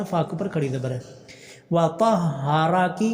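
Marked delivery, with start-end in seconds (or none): 1.7-3.0 slow drawn-out tajweed chant; slow tarteel recitation; Quran recitation. Shown as a demonstration. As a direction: recite each vowel long and measured. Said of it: "ہا کو اوپر شد کرنی".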